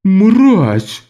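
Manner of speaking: high, loud shrieked insult; shrieking. A narrator's reading. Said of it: "заверещал торговец".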